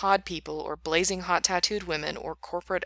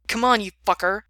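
taunting; 3 semitones higher, 7 dB louder than usual. Acted. Knife fight taunt.

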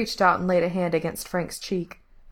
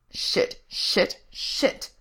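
whispered, separate repeated curses; muttered curses; 2 semitones higher, much slower than usual. A narrator's reading. Frank hears a kid is lost, muttered. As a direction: curse under your breath, no voice. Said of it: "Frank muttered".

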